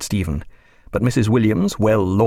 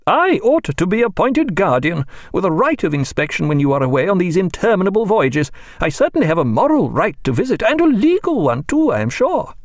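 metallic, dominant ring; 9 semitones higher than usual. A narrator's reading. Mrs Williams lecturing the doctor, domineering ring. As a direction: lay down the law with a ringing voice.

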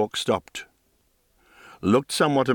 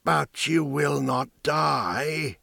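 slow, higher, pleading; pleading old woman; 4 semitones higher, much slower than usual. Acted. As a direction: beg him to say he's immortal.

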